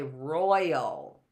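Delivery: "royal" stressed on ROY, drawn out; first-syllable stress. Shown as a demonstration. Teacher showing how we say it, "royal" stressed on the first syllable. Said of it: "is the stress on the roy".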